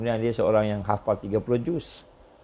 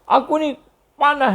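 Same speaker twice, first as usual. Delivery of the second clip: jinn voice, higher, "Panah" with a Kelantan final h; a raised jinn voice in Kelantan dialect, "Panah" ending in h; Kelantan-accented jinn; 13 semitones higher, 4 dB louder than usual. Retold or imitated. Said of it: "dia cakap orang Kelantan sikit". (suara jin berloghat Kelantan, lebih tinggi)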